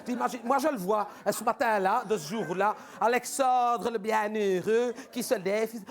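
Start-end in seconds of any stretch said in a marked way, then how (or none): 3.0-5.7 slow, drawn-out mock fairy tale; mocking the young minister's morning; ironic storytelling. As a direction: tell it like a bedtime tale, ironically. Mocking nickname again.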